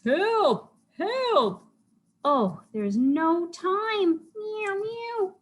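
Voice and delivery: high, loud cat in a panic; hammed-up cartoon panic; panicked cry. A narrator's reading. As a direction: call out high, drawing out the alarm. Characters panicking in story.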